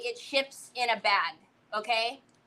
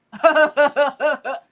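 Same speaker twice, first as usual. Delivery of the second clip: exaggerated rapid ha-ha-ha; imitated laugh; 7 dB louder than usual. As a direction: mimic a big mocking belly laugh. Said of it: "You know what he did?".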